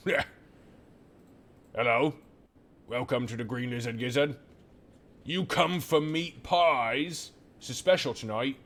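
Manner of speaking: hearty tavern keeper greeting guests; half-orc barkeep, loud and friendly; gruff barkeep. Acted. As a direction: welcome them in like a burly barkeep. GM voicing the barkeep.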